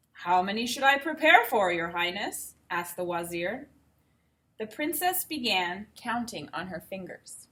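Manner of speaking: put-on reading a picture book aloud to kids; unhurried storybook telling; story narration.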